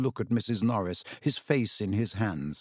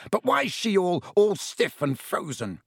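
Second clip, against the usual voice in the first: distraught Filch; 7 semitones higher than usual. A narrator's reading. Caretaker over his frozen cat, distraught. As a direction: plead through the shock.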